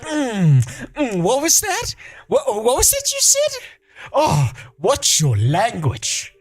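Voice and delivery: high, teasing mock scold. Teasing the wife about her swearing, high mock scold. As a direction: throw her own scolding back at her. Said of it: "I was like".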